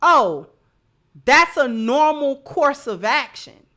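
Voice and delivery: loud, breezy mock nonchalance; mock casual. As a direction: toss it off like it's nothing, loudly. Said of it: "going to truly feel like".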